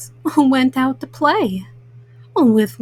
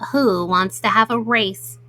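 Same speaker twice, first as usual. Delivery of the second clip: an eager turtle asking around; 4 semitones lower than usual. Acted. Mom reading to kids, Turtle offering a race in a lower voice.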